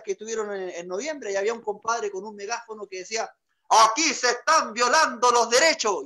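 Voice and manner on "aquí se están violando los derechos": louder, slow protest call; mock protest chant through a megaphone; megaphone protester. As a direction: proclaim it to the crowd.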